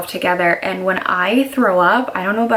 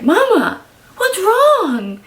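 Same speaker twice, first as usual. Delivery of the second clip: put-on much higher, small child's voice asking; worried little girl; 13 semitones higher, 4 dB louder, much slower than usual. Mom imitating her daughter asking what's wrong, high child voice. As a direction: play a scared little girl checking on mom. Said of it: "And then she's like".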